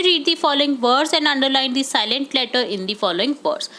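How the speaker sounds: slow, careful reading of the question; slow instruction read. Shown as a demonstration. Teacher reading the worksheet question to students. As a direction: read the task out slowly.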